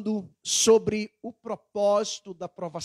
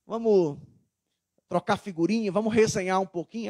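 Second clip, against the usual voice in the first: relaxed and friendly; 3 semitones lower than usual. Retold or imitated. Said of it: "Ela vai entender que eu tô de boa".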